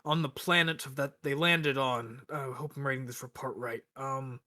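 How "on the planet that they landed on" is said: slow, grand storyteller opening; dramatic recap narration. Acted. Player recapping last session for the group, dramatic slow narration. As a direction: open the saga slowly, with mock-epic weight.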